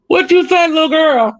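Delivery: put-on high, amused old granny; granny's voice. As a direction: tease the little girl like granny. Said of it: "She go".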